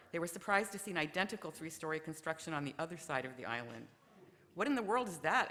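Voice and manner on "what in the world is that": higher, louder amazed question; a lightly acted captain, amazed and louder; astonished. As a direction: gape at the second building.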